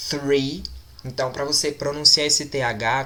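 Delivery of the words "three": "three" with a clearly sounded TH, lifting at the end; "three" with an American TH, not a T; emphasized TH. Shown as a demonstration. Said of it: "tonalidade a esse T H".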